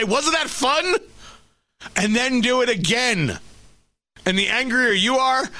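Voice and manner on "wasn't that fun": put-on toddler voice. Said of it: "and say".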